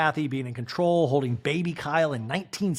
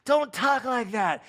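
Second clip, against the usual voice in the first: higher, slow mock scolding; Kyle impression; 9 semitones higher, slower than usual. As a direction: scold slowly, pitched up. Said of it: "he's like".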